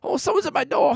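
high surprised gamer voice; mock startled gamer. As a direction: hear the knock mid-game. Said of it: "playing video games".

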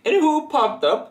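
high, slow, giggly posh Scottish; retelling the customer's line through laughter; posh Scottish impression. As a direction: ham the Scottish lady while laughing. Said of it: "I'm not an actor".

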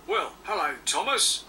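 smiling. Acted. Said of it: "said Stepney with a smile".

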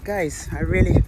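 muffled through a hot rubber mask; inside a rubber mask. Real, not acted. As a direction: talk from inside a stuffy mask. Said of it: "I barely can breathe in this mask".

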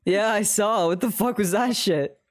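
ordinary talk

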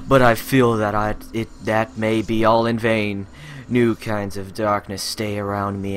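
mock tragic soliloquy. Mock dramatic despair monologue.

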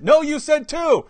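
high, slow imitation of an objector; mock insistence. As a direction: dig in stubbornly, mockingly. Mimics the stubborn objector.

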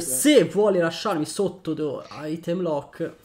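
high, loud battle cry; shouted attack call. Pretend. Player announcing an attack on the opponent, loud triumphant call.

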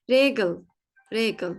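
"Regal" with clear initial R, ending ıl; German pronunciation demo. Shown as a demonstration. Teacher repeats corrected word, "Regal" with ıl ending. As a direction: say "Regal, regal" as RE-gıl. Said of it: "regal diye okuduk".

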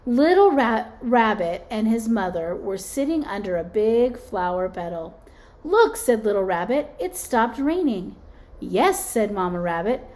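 lively storybook read-aloud; teacher reading a rainbow picture book to kids; reading to children. Acted. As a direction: read it like circle-time story hour.

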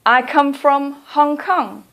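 slow, clearly spoken answer; slow model answer. Shown as a demonstration. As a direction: model it slowly for the learner. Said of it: "You could say".

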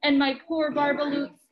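lively storybook reading voice; reading to children. A narrator's reading. Parent reading Dr. Seuss aloud to a child, lively storybook voice. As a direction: read it out like a bedtime book to kids.

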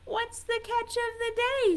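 high-pitched little cub voice; baby tiger. A narrator's reading. Baby tiger asks mother about dinner, high baby voice. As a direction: ask in a tiny, high baby voice. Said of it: "says the baby".

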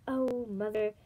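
mildly anxious lament. A narrator's reading. Moon silently calling to her mother, mildly anxious. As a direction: appeal inwardly with a touch of worry. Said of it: "Moon sought anxiously".

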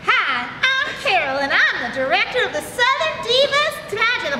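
lightly voiced Southern pageant director; Southern accent. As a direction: introduce yourself with a Southern lilt. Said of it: "You have to sound Southern".

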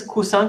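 "cousin" with a hard s, koo-SAN, as the wrong version; pronunciation demo. Shown as a demonstration. Teacher shows the wrong "cousin" that means cushion. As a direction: say "cousin" with double s, unvoiced. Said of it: "se pronuncia cousin".

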